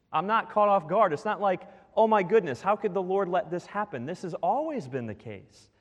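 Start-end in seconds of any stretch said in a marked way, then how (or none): 1.9-4.0 mock alarm. Voicing the shocked believer.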